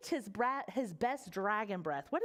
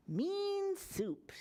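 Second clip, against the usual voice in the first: higher, lilting mum naming the soup; mother's voice; 8 semitones higher than usual. Acted. Mother names the soup for Horace in a higher lilting voice. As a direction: say it like a proud mum. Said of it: "she said".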